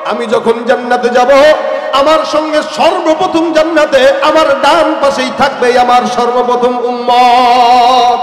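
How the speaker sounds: loud, rousing sermon delivery; full-force preaching. Retold or imitated. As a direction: preach it out, stretching the line endings. Preaches as the Prophet addressing companions. (জোরালো ওয়াজের সুরে)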